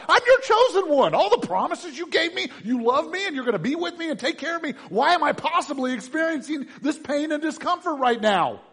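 anguished pleading shout; crying out. Acted. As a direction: beg God at the top of your voice. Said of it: "We cry out to God".

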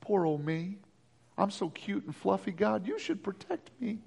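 put-on soft, babyish pleading; mock self-pity. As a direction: whimper like a fluffy lamb. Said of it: "mocking Jeremiah as a lamb".

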